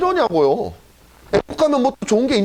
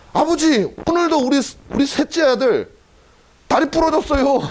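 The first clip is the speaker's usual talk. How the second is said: whining Noah; 5 semitones higher than usual. Acted. Noah complaining to God.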